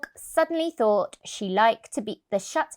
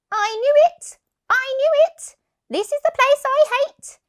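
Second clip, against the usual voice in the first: high, loud alarmed cry; panicked cat; 7 dB louder than usual. Acted. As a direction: panic at the hated place.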